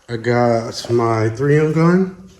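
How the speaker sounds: echoey booth voice; speaking in a reverberant room; big hall echo. Real, not acted. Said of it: "Sorry about the reverb".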